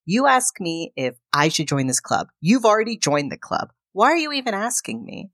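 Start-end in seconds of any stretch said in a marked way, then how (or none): 3.9-5.3 high, incredulous why-ask-me; exasperated. Retold or imitated. To a partner who already decided, exasperated. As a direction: toss it back, fed up and incredulous.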